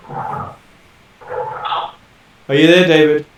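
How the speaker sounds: loud, checking the line; calling out. Real, not acted. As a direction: call out to a bad connection. Calling over bad connection.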